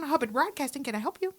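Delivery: polished, polite phone greeting; a hint of corporate phone voice; phone receptionist voice. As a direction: answer like a professional operator. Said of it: "pays me to be a white woman".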